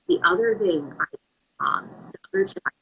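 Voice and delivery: choppy, cutting-out phone line; words dropping out over a weak call; bad connection. Real, not acted. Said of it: "Christina, you're breaking up some".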